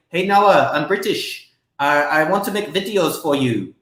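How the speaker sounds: lightly imitated British accent; a light go at an Englishman's accent; mild mock-British voice. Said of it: "in his British accent".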